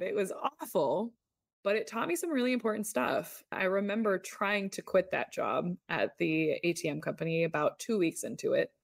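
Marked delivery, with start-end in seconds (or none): none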